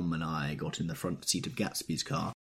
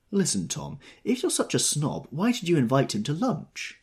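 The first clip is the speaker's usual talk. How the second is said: high, cross demand; 9 semitones higher, 4 dB louder than usual. A narrator's reading. Jordan crossly challenging Tom about the lunch. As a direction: snap the question at Tom. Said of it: "demanded Jordan crossly".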